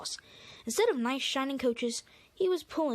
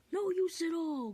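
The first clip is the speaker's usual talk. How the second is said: grumbling; 7 semitones higher, slower than usual. Acted. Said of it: "grumbled Gordon".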